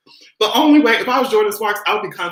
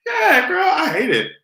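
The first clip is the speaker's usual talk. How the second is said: put-on squealed yeah girl; 10 semitones higher than usual. Reacting, mock distress.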